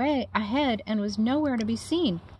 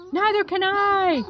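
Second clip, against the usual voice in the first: high, louder wailing howl; 11 semitones higher, 5 dB louder than usual. A narrator's reading. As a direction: howl it in a panic. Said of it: "howled Flitter".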